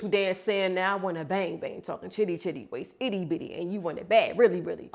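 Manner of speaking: choppy new rap cadence; broken, bouncing flow; switched flow. Shown as a demonstration. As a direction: switch up the rhythm.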